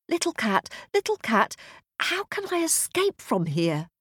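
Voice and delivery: put-on high, anxious little girl. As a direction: ask like a scared girl. Masha asks the cat.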